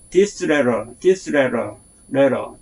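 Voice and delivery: 레 of letter stressed; stress on first syllable. Shown as a demonstration. Teacher showing word stress on letter. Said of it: "첫 번째 앞 단어에 강세가 붙어요".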